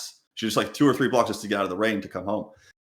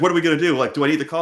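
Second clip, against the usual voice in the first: panicked wife; 5 semitones higher, 5 dB louder, faster than usual. Retold or imitated. Voicing his panicked wife.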